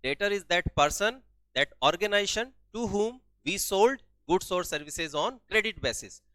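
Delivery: very slow, word by word definition; slow dictating teacher voice; dictation pace. Shown as a demonstration. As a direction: drag each word out for note-taking. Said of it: "dictating definition slowly".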